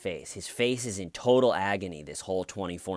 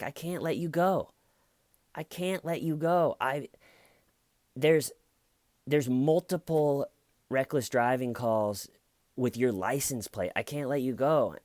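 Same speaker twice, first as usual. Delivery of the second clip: higher, pleading, almost whining officer; exasperated cop; 7 semitones higher, 5 dB louder than usual. Retold or imitated. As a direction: beg him to be reasonable. Cop pleads with drunk lieutenant.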